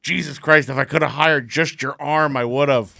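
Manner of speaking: retold irritated complaint; exasperated director. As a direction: let the exasperation out on the actor.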